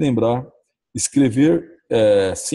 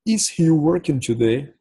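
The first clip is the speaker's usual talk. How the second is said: slow teaching read; 4 semitones higher, slower than usual. Shown as a demonstration. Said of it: "Se pra mesma pergunta".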